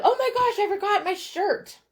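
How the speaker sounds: retold panic. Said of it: "and I said".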